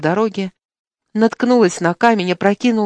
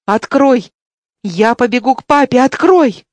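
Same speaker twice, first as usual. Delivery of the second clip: put-on high, loud desperate child's shout, the last word loudest; frightened child shouting; 4 semitones higher, 6 dB louder than usual. A narrator's reading. Boy pounds the cab door, shouting to be let out to papa. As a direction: bang on the door and scream to be let out. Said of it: "Заколотил он дверцу".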